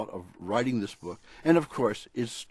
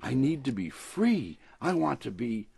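lively picture-book read-aloud; storybook reading. A narrator's reading. Author reading his dog story on the radio, storybook voice. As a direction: read it like a bedtime story for a pet.

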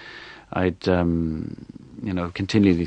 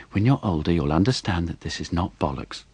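patient, wise voice. Retold or imitated. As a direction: lightly imitate mum's knowing calm. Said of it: "patient, wise voice that she always uses".

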